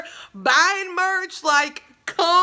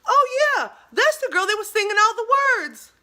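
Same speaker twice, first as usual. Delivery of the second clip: imitating Tyrone; 8 semitones higher, 4 dB louder than usual. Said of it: "He goes".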